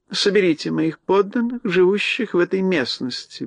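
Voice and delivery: mouse queen voice. Acted. Queen gives order.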